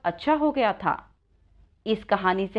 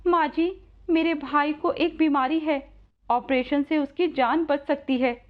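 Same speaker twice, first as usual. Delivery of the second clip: put-on higher, earnest girl's voice; worried young Radha; 4 semitones higher than usual. Radha tells old woman about brother's illness, worried higher voice. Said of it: "तू इतनी चिंतित नजर".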